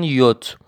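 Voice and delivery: یوت alone as "yot", for repeating; German letter J. Shown as a demonstration. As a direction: model یوت with a y start and closing t. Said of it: "دوستان تکرار کنن".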